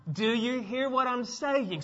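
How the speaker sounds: slow, deliberate check that they heard; stern parent talk. Acted. Talking to adults like children, slow and stern. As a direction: spell it out as if to a child. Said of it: "I've had to talk to adults that way too".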